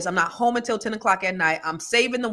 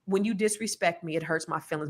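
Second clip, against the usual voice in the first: soft, lowered voice of a dad confiding hurt; quiet, hurt father; 4 semitones lower, 8 dB quieter than usual. Retold or imitated. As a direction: say it softly and seriously, retelling dad. Father's gentle talk retold.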